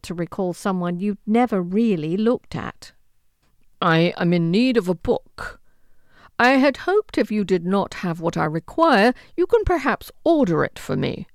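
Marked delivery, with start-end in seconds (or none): 3.8-11.3 haughty lord. Acted. Arrogant lord requests a book.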